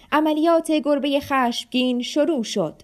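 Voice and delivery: put-on boy shouting the mission has begun; excited shout. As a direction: call out the start of the operation. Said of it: "داد زد".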